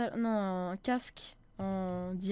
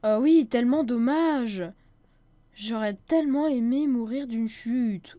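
sarcastic; 6 dB louder, slower than usual. Acted. Sarcastic reply to friend's jab.

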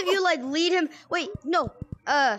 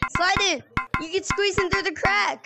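urgent; 4 semitones higher than usual. Real, not acted. Urgent instructions to friends.

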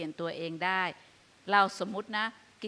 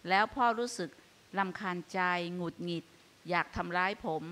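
ลูกพูดเปิดใจกับพ่อ; 2 semitones lower than usual. Shown as a demonstration. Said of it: "แล้วก็บอกว่า".

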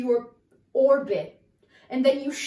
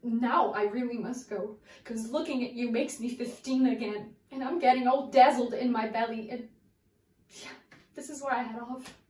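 searching soliloquy. Acted. Actress monologue to Raymond.

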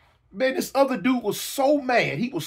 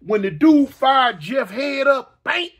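shout; 3 semitones higher, 5 dB louder than usual. Real, not acted. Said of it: "shouted build to slap".

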